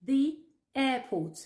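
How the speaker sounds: slow model "airport" with "the" as thee. Shown as a demonstration. English teacher modelling "the airport" for French learners, careful pronunciation. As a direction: say "thee" before airport, drawn out. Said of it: "Le E de the se prononce the".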